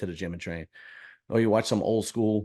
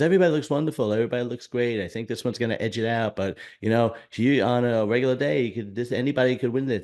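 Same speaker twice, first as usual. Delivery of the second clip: mock bubbly commentator; 2 semitones higher, faster than usual. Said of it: "the commentating for the bikini girls is terrible".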